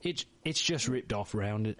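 a second try at British that drifts Australian; lightly mock Australian twang; accidental Australian accent. Host retrying the British line, lands Australian. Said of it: "Nope, that's Australian".

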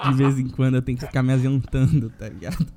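low, monotone, deadpan announcement; put-on solemn voice, pitched low and level; mock-solemn statement. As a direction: deliver a grave official statement, tongue in cheek. Mock-solemn statement on his absence.

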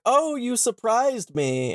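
a hint of a startled faun; mild goat-man quote. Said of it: "he's like".

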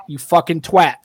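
slightly British-sounding insult; British twang on the swear. Retold or imitated. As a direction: let a hint of British slip into it. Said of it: "you sounded really British when you said that".

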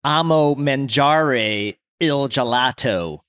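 slow, flat American accent on "amo mangiare il gelato"; slow, deliberately mangled American Italian; poor American-accented Italian. Shown as a demonstration. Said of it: "I'll intentionally say it poorly".

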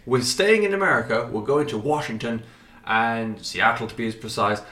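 put-on presenter voice. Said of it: "I don't know why I'm doing this".

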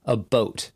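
"a boat" with a long O, as spelled B-O-A-T; Canadian "about" turned into "a boat"; "boat" pronunciation. Shown as a demonstration. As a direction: say "a boat" for about, rhyming with coat. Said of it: "I would have spelled it".

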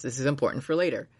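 fast throwaway line; quick mock announcement. Friend mocking Cornello's radio, said fast. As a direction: rattle it off fast, deadpan. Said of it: "be like".

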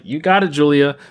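imitated supporters cheering her on; lightly voiced "you got it" as a statement; retold encouragement. Fans backing an actress through drama, mock encouragement. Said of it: "people were like".

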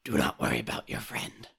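solemn raven spirit; calm otherworldly bird. Acted. S2 holds the Raven voice.

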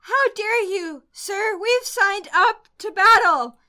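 indignant outburst. Acted. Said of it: "Willow runs up and says".

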